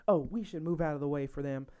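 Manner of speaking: lightly imitated mom with southern accent. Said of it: "I'm talking in a southern accent".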